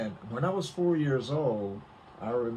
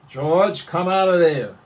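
urgent call; 6 semitones higher, 13 dB louder than usual. Retold or imitated. Boy calls out urgently to George.

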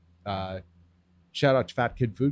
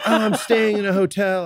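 higher and louder mock tourist voice; prissy customer; 8 semitones higher, 6 dB louder than usual. Mocking a farmers market customer who can't keep lettuce, higher mock voice. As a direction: mimic a fussy hotel guest, lightly mocking. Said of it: "They're like".

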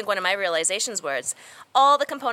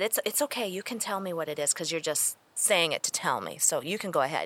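soft, low, coaxing caregiver; gentle reassurance; 5 semitones lower, 8 dB quieter than usual. Retold or imitated. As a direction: give a child quiet permission. Reassuring child to say the word.

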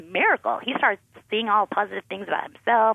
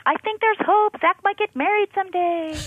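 high, excited gushing on the phone; thrilled friend; 13 semitones higher, 3 dB louder than usual. Retold or imitated. Friend calling the mother, thrilled and gushing. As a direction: gush it out like joyful news.

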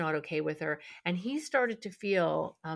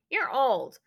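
imitating a toddler; 6 semitones higher, 7 dB louder than usual. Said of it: "a two-year-old came up to you and said".

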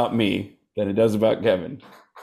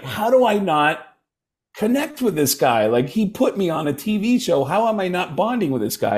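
exasperated self-questioning; 5 semitones higher than usual. Retold or imitated. Acting out his insecure frustration.

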